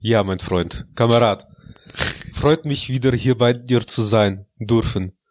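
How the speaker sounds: mock Russian accent on his German, lightly put on; fake Russian accent. Host greets his friend in a mock Russian accent. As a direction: play the Russian comrade greeting his podcast partner. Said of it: "dein russischer Akzent ... so fake klingt".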